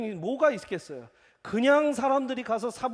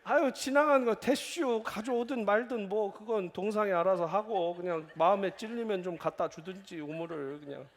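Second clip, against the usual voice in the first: Chungcheong dialect. Retold or imitated. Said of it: "충청도인이 아무 말 안 하고". (충청도 사투리로 느긋하게 넘기는 말투)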